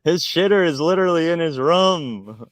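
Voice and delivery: high, loud, through laughter; laughing exclamation. Real, not acted. Host teasing friend about his outhouse, cracking up. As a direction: crack up while blurting it out.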